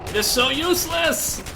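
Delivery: venting at a useless gun; frustrated yell. Real, not acted. Gun frustration while gaming.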